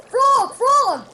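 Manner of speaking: high excited call; calling out eagerly to a friend; loud, high cry of a friend's name; cried out. A narrator's reading. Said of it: "he cried".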